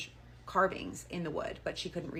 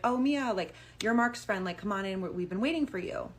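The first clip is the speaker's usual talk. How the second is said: higher, louder welcoming greeting; eager welcome; 3 semitones higher, 5 dB louder than usual. Retold or imitated. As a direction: greet an expected guest eagerly. Older woman greets the expected guest.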